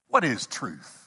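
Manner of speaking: low, dry, doubting scoff; skeptical. Retold or imitated. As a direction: toss the question off with doubt. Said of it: "uh, skeptical".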